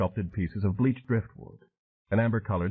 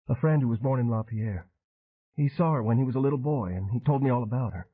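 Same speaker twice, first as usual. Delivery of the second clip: a bit higher, sincere explaining; honest and hopeful; earnest young woman; 4 semitones higher than usual. Acted. Arden telling Train about her friend, earnest.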